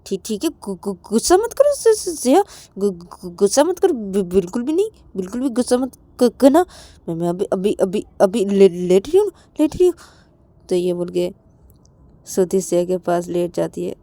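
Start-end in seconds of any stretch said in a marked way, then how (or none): 0.0-10.0 stammering. Acted. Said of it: "तो तभी श्रुति बोलती कि".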